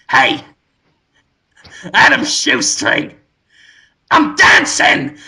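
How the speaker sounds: high, slow, gleeful creepy announcement; a grinning flower bursting with joy; Willem Dafoe flower. Retold or imitated. Flower greeting Adam from the desk, high gleeful voice. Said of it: "and he just goes".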